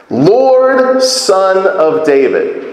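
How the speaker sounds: high pleading cry on Lord, then slow. Retold or imitated. Preacher voicing the woman crying out to Jesus, high pleading cry. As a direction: call Lord, Son of David up high, then ease into a slow plea. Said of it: "she's crying out".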